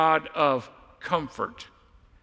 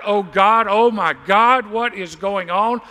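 louder desperate cry to God; 2 semitones higher, 5 dB louder than usual. Retold or imitated. Preacher acting out a desperate believer crying to God, louder. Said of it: "you just cried out".

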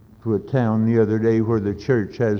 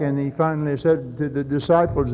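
ordinary talk

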